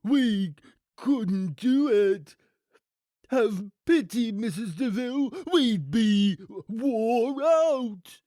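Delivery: pleading henchman, high and drawn out; slow, loud, distressed crook; shaky. A narrator's reading. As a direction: beg for pity in a shaken voice. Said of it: "he said shakily".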